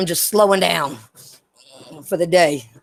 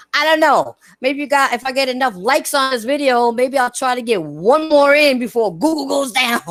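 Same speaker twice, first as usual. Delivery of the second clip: giggly; 5 semitones higher than usual. Real, not acted. Giggly joking about ending.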